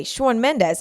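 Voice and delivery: mock New York accent on the name; cringey New York accent. Host mocking her own accent habit, cringey New York accent. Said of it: "like, an accent that's cringe".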